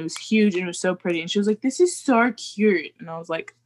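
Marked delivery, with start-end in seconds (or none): 1.6-2.9 put-on slow Australian-accented quote; drawn-out imitated Australian accent. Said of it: "they were all Australian".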